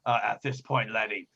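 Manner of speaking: lightly voiced old sea captain; a hint of pirate, easing off at the end; pirate captain, indulgent. Captain putting a young crewmate straight, indulgent pirate voice.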